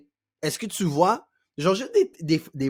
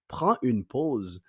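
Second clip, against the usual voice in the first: slow, paused; much slower than usual. Shown as a demonstration. Demonstrates pausing while advising it.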